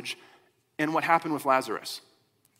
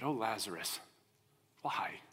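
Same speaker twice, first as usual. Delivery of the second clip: soft, low, broken-hearted sigh; grieving lament; 5 semitones lower, 9 dB quieter than usual. Retold or imitated. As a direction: murmur it over the body of a lost brother. Grieving sister over brother's body.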